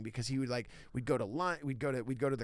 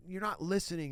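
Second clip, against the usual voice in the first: higher-pitched, lightly scolding jab; mock accusing; 6 semitones higher than usual. Comic retelling what his mentor did not mean, mock accusing. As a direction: say it as a mild put-down. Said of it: "like I was being a dick".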